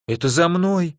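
high-pitched frightened yelp; frightened squeak. A narrator's reading. Igor fearing they came for him, frightened squeak. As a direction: pipe up in alarm. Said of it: "испуганно пискнул Игорь".

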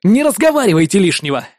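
high, forced-polite scolding. A narrator's reading. Hero scolding partner, high and forced polite. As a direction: swallow the curses mid-word. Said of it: "ругался я".

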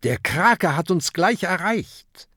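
high, pressing, worried voice; worried warning. A narrator's reading. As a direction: warn the crew of the danger. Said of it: "blickt besorgt".

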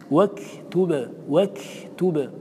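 slow واكتب, air escaping after the ك; audible breath demo. Shown as a demonstration. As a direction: release the ك of واكتب with a puff of breath. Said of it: "تسمعون النفس".

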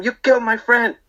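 very high-pitched retold accusation; mock screaming. Barber accusing customer over dead buddy, mock screaming. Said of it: "we was all screaming".

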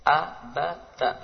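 "Abata" in short separate syllables; short clipped syllables. Shown as a demonstration. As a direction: chop "Abata" into short beats. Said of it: "Pendek-pendek saja sekali lagi". ("Abata" dibaca pendek-pendek)

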